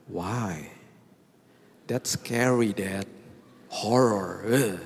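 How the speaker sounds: lightly voiced child saying it's creepy; child's voice. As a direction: play the scared child pushing back on Daddy. Child objects to hide and seek.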